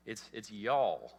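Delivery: a hint of a Texan drawl on y'all, slow; light Texan. Shown as a demonstration. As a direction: lean slowly into y'all like a Texan. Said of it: "Jesus speaks Texan".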